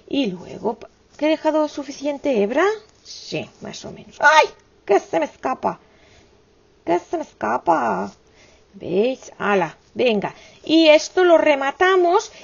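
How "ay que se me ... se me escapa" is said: alarmed cry. Real, not acted. Thread slipping away while sewing.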